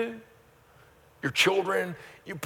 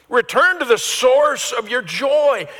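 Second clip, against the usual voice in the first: shouted proclamation; 10 semitones higher, 7 dB louder, slower than usual. Shown as a demonstration. Pastor thundering the phrase back to his congregation, high and loud. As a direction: Return to the source of your joy, cried out high and loud and slow. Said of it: "So say that with me".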